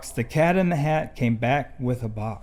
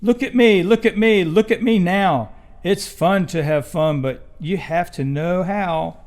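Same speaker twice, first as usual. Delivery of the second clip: cat in the hat. Acted. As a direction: boast to the kids while balancing everything. Cat shows off balancing act.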